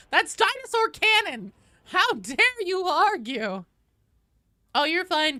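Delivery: high, wobbly granny voice; old lady voice. Acted. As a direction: play a feisty old woman. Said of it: "supposed to be doing the old la-, lady voice".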